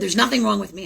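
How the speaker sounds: a touch of upset insistence; mildly indignant denial; retold mother's mild indignation. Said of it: "she got upset and said".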